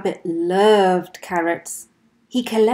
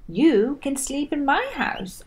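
Squirrel; 6 semitones higher than usual. Acted. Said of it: "offered Squirrel".

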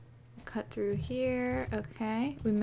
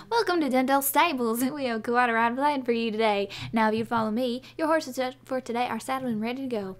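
a touch of a louder welcoming guide; lightly voiced hostess; 4 dB louder than usual. Jolene welcoming the riding club, lightly voiced. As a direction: greet the riders brightly.

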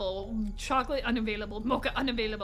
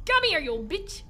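mock chase yell; 4 semitones higher than usual. Real, not acted. Chasing man in game.

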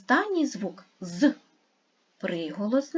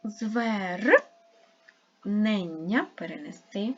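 syllable hyphenation demo. Shown as a demonstration. Teacher showing the second way to split a word. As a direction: show the second way to break "Звернення". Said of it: "Другий спосіб".

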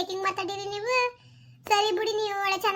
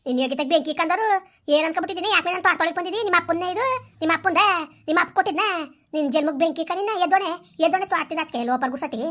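angry scolding; 3 dB louder than usual. Acted. Garden owner scolding intruder.

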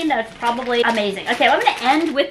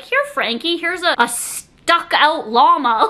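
mock gift offer; 3 semitones higher, slower than usual.

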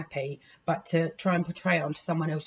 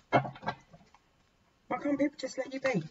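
weary plea; 7 semitones higher, 5 dB quieter, much slower than usual. Real, not acted. Pleading after angry rant.

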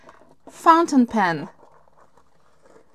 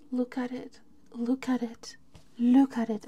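awed whisper; 5 dB quieter than usual. Real, not acted.

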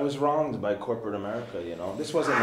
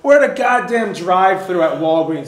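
getting mad; 5 semitones higher, 8 dB louder than usual. Retold or imitated. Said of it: "'cause now I'm getting mad".

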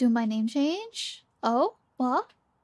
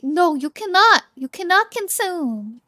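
loud, higher playful protest; mock outraged refusal; 4 semitones higher, 7 dB louder than usual. Streamer in cookie outfit refusing chat a bite, mock outraged. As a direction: forbid it with hammed-up indignation.

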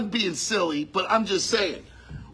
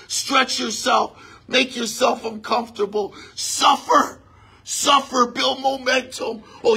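fervent preaching. Acted. Preaching at full force.

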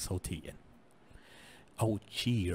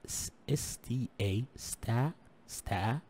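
slow spelling; much slower than usual. Shown as a demonstration. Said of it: "شوف كيف نطقنا".

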